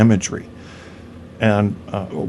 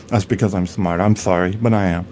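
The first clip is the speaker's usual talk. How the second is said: smug, lower know-it-all impersonation; Andy Bong; 4 semitones lower than usual. Acted. Comedy snob explains he is just smart, low smug impersonation. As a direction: drop into mock-apologetic self-satisfaction. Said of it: "That was my Andy Bong impersonation".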